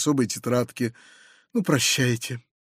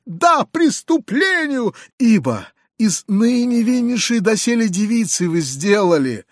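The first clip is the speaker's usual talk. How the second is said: very high shrill accusation; shrieking; 6 semitones higher than usual. A narrator's reading. Foma shrieking his accusation, very high. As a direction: shriek the charge, voice way up. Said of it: "визжал Фома".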